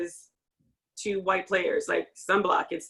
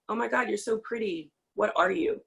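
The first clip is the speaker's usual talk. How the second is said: mock teammate gushing; 3 semitones higher, faster than usual. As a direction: ham up the clueless teammate. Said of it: "teammates will say".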